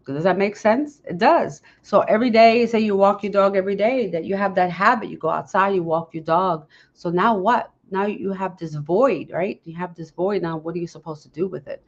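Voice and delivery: ordinary delivery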